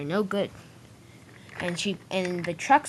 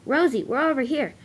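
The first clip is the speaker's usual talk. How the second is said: a high, loud call to stop her; 6 semitones higher, 4 dB louder than usual. A narrator's reading. Sir Topham Hatt calls after Rosie racing past, loud call. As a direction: shout it after the runaway engine. Calling Rosie back to them.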